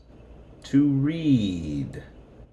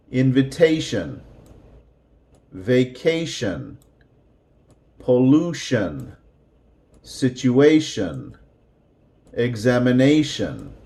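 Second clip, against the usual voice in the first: Invitation, vacation, pollution, situation, examination each raised on the vowel before shun; pitch up before shun. Shown as a demonstration. Teacher to class: demo of raising the voice before shun. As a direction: lift the voice on the syllable before shun. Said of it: "So it's going to sound like this".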